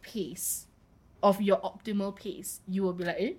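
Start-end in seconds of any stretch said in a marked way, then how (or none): 3.2-3.3 high, loud startled greeting; bright surprised "hi" on spotting someone; surprised hello. Acted. Acting out meeting the right person.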